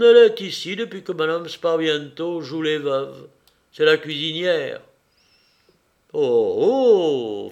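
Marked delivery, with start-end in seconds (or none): 6.1-7.5 startled little "oh, oh". A narrator's reading. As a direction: caught off guard, a dawning worry. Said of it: "fit monsieur Dudouis". (oh, oh inquiet et surpris)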